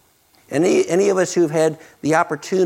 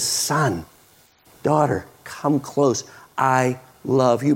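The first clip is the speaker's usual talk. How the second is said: tender call; 4 semitones lower, slower than usual. Retold or imitated. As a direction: draw your children near, gently. Voicing Jesus tenderly.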